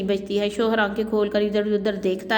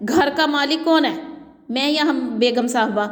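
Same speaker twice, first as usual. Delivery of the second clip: angry; 2 semitones higher than usual. Acted. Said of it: "غصے میں کہتا ہے".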